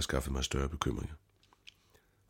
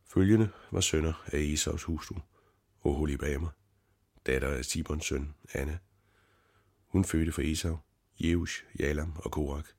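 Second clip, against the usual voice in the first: reading aloud. A narrator's reading. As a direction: read the genealogy out carefully, word by word. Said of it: "læste højt".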